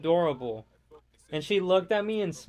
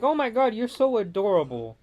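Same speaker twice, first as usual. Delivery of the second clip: put-on cooing at a kid; 3 semitones higher than usual. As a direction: gush over a cute kid, pitched up. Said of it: "I'm like".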